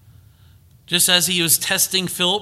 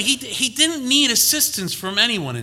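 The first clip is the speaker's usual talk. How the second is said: fervent preaching; 7 semitones higher, 4 dB louder than usual. Real, not acted. Preaching climax continues.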